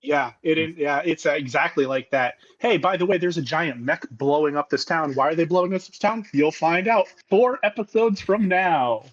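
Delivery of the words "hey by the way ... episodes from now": mock announcing. Voicing the show's abrupt storytelling.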